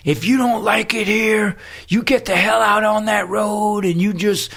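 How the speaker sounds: lightly voiced hostile guru threatening them; a hint of a menacing guru.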